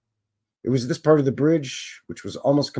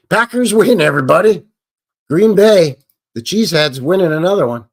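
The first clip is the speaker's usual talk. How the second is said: excited cheer; 6 semitones higher, 9 dB louder than usual. Real, not acted. Cheering a football win.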